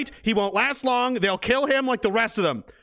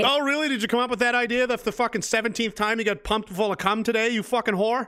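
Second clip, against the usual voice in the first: higher, mocking "oh really"; sarcastic sneer; 3 semitones higher than usual. Real, not acted. Streamer jeering at the woman on screen, sarcastic and mocking. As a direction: jeer at the woman in the video.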